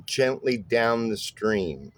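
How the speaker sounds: "gently down the stream" slowly, stressing GENT, DOWN and STREAM; trochaic rhythm. Shown as a demonstration. Bass teacher showing a trochaic example, stressed-unstressed rhythm on "gently down the stream". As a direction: beat out "gently down the stream" as strong-weak pairs. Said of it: "look at a trochaic example".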